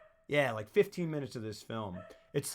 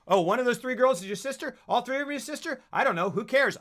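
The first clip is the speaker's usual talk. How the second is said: mock dismissive; 8 semitones higher, 4 dB louder than usual. Retelling own reaction while watching.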